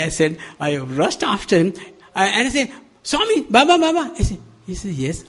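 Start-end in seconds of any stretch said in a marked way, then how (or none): 3.0-4.1 high, eager call after a departing teacher; high excited call of Swami, Baba. Retold or imitated. Rushing after him, calling out. 4.9-5.2 calm slow reply. Retold or imitated. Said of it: "he's speaking slowly".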